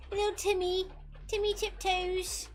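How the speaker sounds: high, laughing through the name; can't keep a straight face; giggling. Real, not acted. Giggling at the nickname.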